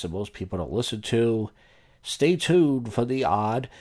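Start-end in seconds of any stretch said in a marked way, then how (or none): 2.0-3.7 slow drawn-out tease. Acted. Show sign-off tease.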